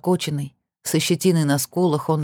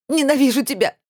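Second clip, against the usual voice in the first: high, screamed hatred; shout of hate; 10 semitones higher, 3 dB louder than usual. Acted. Heroine screams at Kir, high and raw. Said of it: "закричала".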